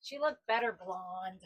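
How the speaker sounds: said again slowly and clearly for someone who missed it; slow clear repeat. Real, not acted. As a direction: repeat it slowly so they catch every word.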